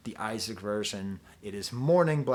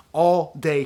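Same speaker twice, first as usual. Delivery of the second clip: quoted line; 3 semitones higher, 9 dB louder than usual. Retold or imitated. Quoting a film line louder.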